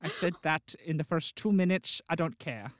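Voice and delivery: muddled put-on accent, vaguely Dutch; unidentified comic accent. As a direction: keep up a wobbly foreign accent. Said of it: "I don't know what accent this is".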